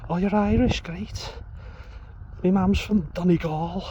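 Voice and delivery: high, put-on Liverpool accent, friendly; Scouse accent. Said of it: "I love the accent as well".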